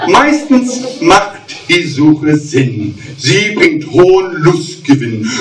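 rhythmic cabaret verse reading; mock-solemn poetry reading; poem recital. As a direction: recite the verse with comic timing.

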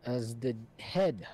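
commanding queen. Acted. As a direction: issue orders to your head knight with mild authority. Game master voices queen giving orders.

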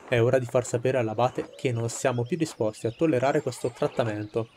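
steady orator addressing a crowd; rousing speech. Acted. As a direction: speak to the villagers like a rebel leader. Reads a rebel's speech to villagers.

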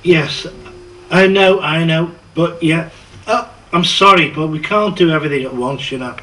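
babbling yes and no in panic; flustered and frantic. Acted. Flustered acted phone juggling.

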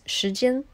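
时间 said slowly as shí jiān, rising on 间; Mandarin shí jiān. Shown as a demonstration. Explaining the Mandarin word for time to listeners, said slowly. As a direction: carefully sound out 时间 in Mandarin. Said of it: "time is".

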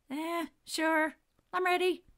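put-on high, loud boy's voice; boy's reply. A narrator's reading. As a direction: answer as a cocky young racer. Boy answers the referee.

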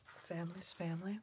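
hushed whispered confession. Acted. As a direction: breathe the words, no voice. Whispered roleplay throughout.

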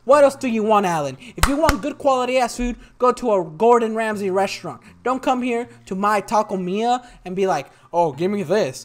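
loud, high-pitched tirade at a picky customer; indignant rant. Real, not acted. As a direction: vent at Alan, fired up. Ranting at customer over grade.

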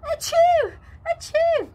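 two loud, high sneezes. Acted. Joey sneezing in front of the dingo, loud high sneezes. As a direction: blast out two squeaky sneezes.

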